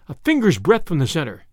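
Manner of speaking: plain reading voice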